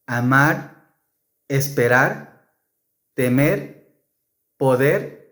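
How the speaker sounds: amar, comer, partir ending in a single tap; soft r. Shown as a demonstration. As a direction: end each infinitive on a light tapped r. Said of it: "you must pronounce the soft R".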